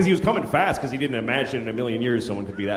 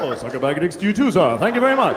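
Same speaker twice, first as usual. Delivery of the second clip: mock polite greeting. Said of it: "like a greeting".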